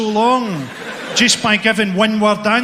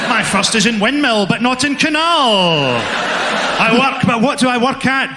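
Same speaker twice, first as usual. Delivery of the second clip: riddle-teller voice. Pretend. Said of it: "human riddle".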